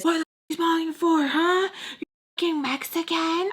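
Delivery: high, fast mocking voice of the rival girl; angry rival. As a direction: spit it out as the sneering opponent. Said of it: "and she says".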